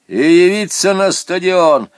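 strict bureaucrat laying down instructions; stern official. A narrator's reading. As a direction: brush off objections and dictate orders. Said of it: "строго говорил Ирине Вадимовне".

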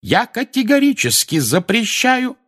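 high, loud, slow ban; angry mother laying down the law; furious forbidding. Acted. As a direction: forbid it absolutely. Mrs Weasley forbids.

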